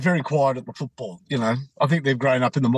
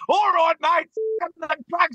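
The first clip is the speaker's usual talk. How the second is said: high, fed-up outburst; imitated exasperation; 13 semitones higher than usual. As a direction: act out a badgered fan giving in. Retold supporter finally gives in.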